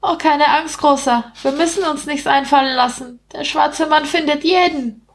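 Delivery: high-pitched rat, teasingly ominous. Acted. Rat telling the man the killer finds everyone, high voice. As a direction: warn in a small high rat voice.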